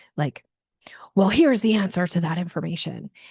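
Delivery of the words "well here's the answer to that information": mock, very high, aggressive tone. Showing how an upset caller may still answer: imitating a very high aggressive tone. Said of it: "still at that very high aggressive".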